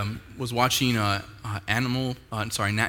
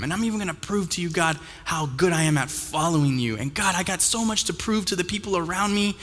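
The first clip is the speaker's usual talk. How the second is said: mock self-promotion, higher and insistent; boastful prayer; 4 semitones higher than usual. Preacher voicing someone proving themselves to God, boastful and eager. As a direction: brag eagerly, running on with rising urgency.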